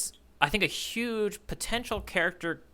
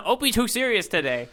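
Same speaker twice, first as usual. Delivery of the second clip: said through laughter; chuckling as you say it; laughing along at the joke; 6 semitones higher than usual. Real, not acted.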